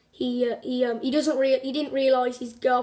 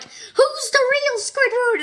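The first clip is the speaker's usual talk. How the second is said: high, slow mock-exasperated cry; exasperated buyer; 12 semitones higher, 3 dB louder, slower than usual. Angry house buyer demanding answers, high and drawn out. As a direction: stretch it out, high and fed up. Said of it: "She was like".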